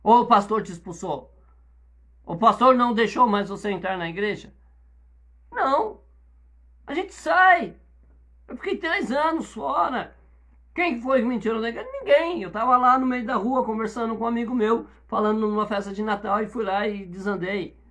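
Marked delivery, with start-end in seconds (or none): 5.5-12.4 fiery preaching. Real, not acted. Preaching emphatic testimony.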